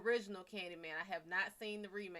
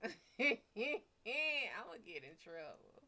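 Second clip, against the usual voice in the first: laughing; 5 dB louder, much slower than usual. Shown as a demonstration. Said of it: "I feel like".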